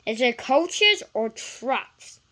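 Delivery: slow, drowsy question; sleepy. A narrator's reading. Gordon just woken asking his driver, slow and sleepy. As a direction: ask it half asleep. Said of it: "asked Gordon sleepily".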